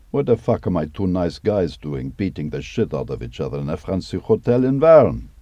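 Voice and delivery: rising into a high, loud outraged shout; mock furious prince. Dima acting out the prince raging at Emilio, hammed-up shout. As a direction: ham up the prince's tantrum. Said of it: "Emilio, my friend".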